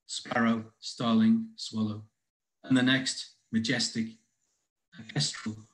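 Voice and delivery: measured poem recital with deliberate pauses; poetry reading. Acted. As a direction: read it as verse, line by line. Reads own poem aloud.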